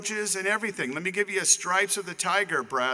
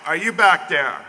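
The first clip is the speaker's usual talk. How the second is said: loud call across the room; 11 dB louder than usual. Real, not acted. Speaker calls out to a teammate in the crowd, loud call. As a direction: call his name out to the back of the hall. Calling to a guest in audience.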